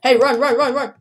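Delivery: urgent run call with a laugh; laughing warning. Real, not acted. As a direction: laugh while urging him on.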